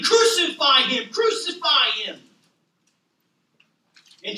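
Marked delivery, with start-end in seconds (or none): 0.0-2.2 crowd shouting. Retold or imitated. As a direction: call it out like the angry crowd. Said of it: "We're now shouting".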